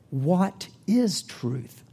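slow, dismissive retort; Pilate retorting. Acted. Pilate retorting to Jesus, slow and dismissive. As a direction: let the question hang, slow and cold. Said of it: "retorted Pilate".

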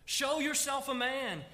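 king charging his son, loud and firm; fatherly charge. Acted. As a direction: charge him to be strong. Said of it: "David says to him".

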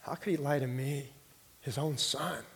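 retold sobbing plea. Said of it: "I just started sobbing like a baby".

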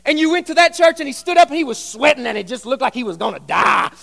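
hammed-up sweaty preacher voice; a parody of a sweating preacher building steam; mock sweaty preacher. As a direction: imitate an overheated preacher. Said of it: "talked like this".

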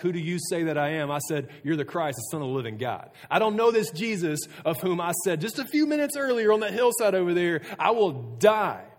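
loud, high-pitched vehement oath; losing his mind. Acted. Peter swearing he never knew Jesus, building outburst. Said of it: "he, like, loses his mind about this".

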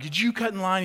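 retold scolding shout, light; mock scream. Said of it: "screaming at him and being like".

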